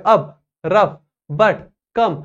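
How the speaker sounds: अप, रफ, but, कम each with a fast "uh"; short-vowel drill on अप, रफ, but, कम; quick short vowel. Shown as a demonstration. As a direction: fire off अप, रफ, but, कम as short separate words. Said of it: "एकदम fast होतंय".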